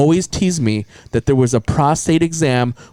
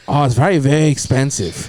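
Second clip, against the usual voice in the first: Chinese doctor. Retold or imitated. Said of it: "That's what my Chinese".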